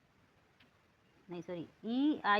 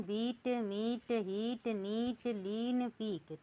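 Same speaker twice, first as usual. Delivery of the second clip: slow repeat; 2 semitones higher, much slower than usual. Shown as a demonstration. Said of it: "फिर से भी repeat कर देती हूँ".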